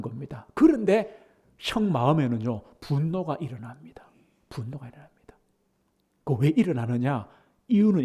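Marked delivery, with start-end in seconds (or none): 2.8-4.0 whisper. Real, not acted. Whispered repetition. 4.5-5.4 분노가 일어납니다 breathed out even softer; softer echo of 분노가 일어납니다; fading whisper. Real, not acted.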